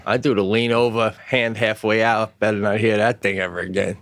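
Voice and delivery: low, measured parental warning; mock stern dad. Father warning child about swearing, mock stern. Dad mimics threatening his kid.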